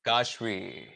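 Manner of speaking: "Kashvi" softly repeated with long A. Shown as a demonstration. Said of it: "it's a long A".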